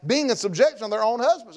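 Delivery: measured sermon reading of the verse; scripture reading. Acted. Preacher reading scripture to the congregation, measured. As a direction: read the scripture out to the church.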